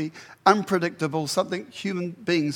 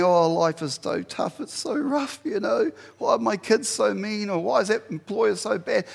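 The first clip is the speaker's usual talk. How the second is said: self-pitying complaint, pitched up; mock pouting; 4 semitones higher than usual. Shown as a demonstration. Preacher acts out himself pouting about life, mock whiny. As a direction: grumble like someone feeling sorry for themselves. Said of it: "when I'm pouting, and I'm saying".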